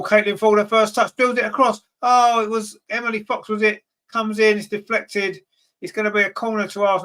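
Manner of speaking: excited commentary. Real, not acted. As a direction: ride the build-up of the move. Arsenal attack builds in the box.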